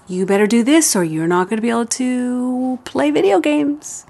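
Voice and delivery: threatening parent. Shown as a demonstration. Parent warning a child the wrong way, threatening. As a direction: lean on the threat like a nagging parent. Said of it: "So you don't say it like this".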